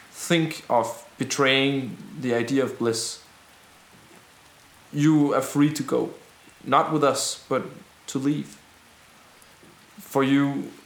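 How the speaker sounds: measured oratory, phrase by phrase; rebel leader's speech. Acted. Rebel offers doubters a choice, measured public speech. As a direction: let each clause land on the crowd.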